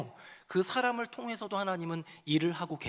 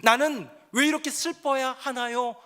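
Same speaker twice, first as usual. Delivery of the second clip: complaining lament; 4 semitones higher, 3 dB louder than usual. Acted. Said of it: "하는 한탄과".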